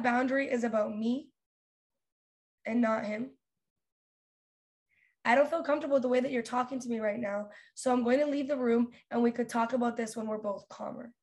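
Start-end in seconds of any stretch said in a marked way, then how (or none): 5.2-11.1 composed, polite firmness; nice tone. Shown as a demonstration. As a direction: state it evenly and kindly, without heat. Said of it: "say it in a nice tone".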